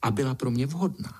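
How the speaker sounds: a vain ladybug bluffing grandly; boastful little princess. A narrator's reading. Pinkalinka boasts to spider.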